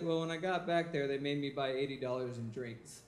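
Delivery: low, glum complaint; deflated Spencer. Retold or imitated. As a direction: sound let down.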